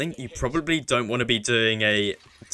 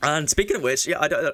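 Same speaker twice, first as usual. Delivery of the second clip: voice breaking and cracking mid-sentence; 4 semitones higher than usual. Explaining gold per minute and relics to viewers, voice cracking mid-sentence. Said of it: "bit of a voice crack there".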